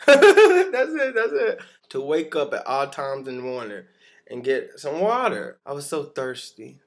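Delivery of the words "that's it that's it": high laughing burst. Real, not acted. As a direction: laugh it out, delighted. Laughing at finding the word.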